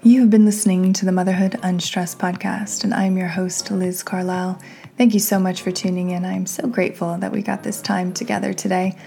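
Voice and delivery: upbeat host sign-off; podcast outro read. Acted.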